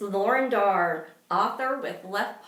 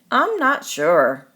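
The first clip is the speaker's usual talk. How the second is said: hesitant; 11 dB louder than usual. Acted. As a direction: hold back, not convinced yet. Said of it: "Benji hesitated and said".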